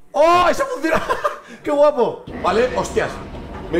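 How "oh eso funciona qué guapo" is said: laughing. Real, not acted. Gleeful reaction, VR fight works.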